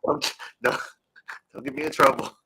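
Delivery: muffled audio, like talking into a fan. Real, not acted. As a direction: voice buried in fan noise. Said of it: "sound like you're talking into a fan".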